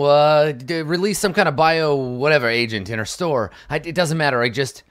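mildly worked-up manager, stumbling over words; getting a little emotional. Acted. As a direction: let some agitation creep in as you accuse her. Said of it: "get a little emotional".

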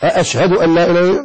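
أشهد begun with two hamzas, as if asking; question hamza. Shown as a demonstration. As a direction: double the opening a of أشهد, "a-ashhadu". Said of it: "هو سؤال يعني".

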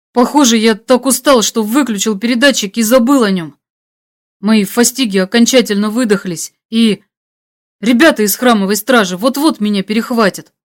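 lightly acted urgent radio report; a touch of tense worry; exhausted hunted hero. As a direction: report the trouble with mild strain.

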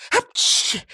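a sudden high sneeze. Acted. Harmonica player sneezes before praising himself. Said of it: "чихнув".

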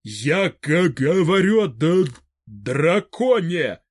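halting, stuttering on first sounds; stammering old man. A narrator's reading. Fedor Semenovich nervously objecting to Vybegallo, stuttering. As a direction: trip over every opening syllable, nervous.

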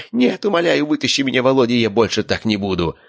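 villain squealing for mercy; squealing plea. A narrator's reading. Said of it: "завизжал Безродный".

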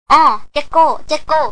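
dawning "oh", then repeat "Gecko" slowly with a J sound; learning a word. A narrator's reading. Helper memorises the new word, slowly repeating "Gecko". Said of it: "จันทำปากหมุบหนิบท่องไว้".

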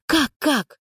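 mock her words back at her; mocking mimicry. A narrator's reading. Cynical Anka mimics Arina mockingly. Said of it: "передразнила Анька".

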